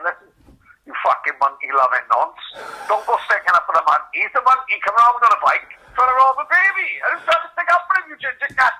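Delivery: rising mock rant; angry rant. Angry retold message to Di.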